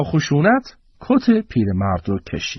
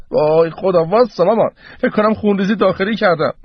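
higher-pitched hypochondriac wail; melodramatic complaint; 6 semitones higher than usual.

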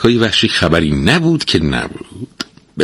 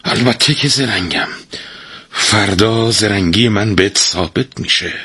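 proud; 3 semitones higher than usual. Acted. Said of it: "مرد با غرور گفت".

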